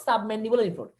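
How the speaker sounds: spelling out a term word by word, very slow; slow teacher dictation. Shown as a demonstration. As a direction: say it slowly so students can write it down. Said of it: "teacher dictates term slowly".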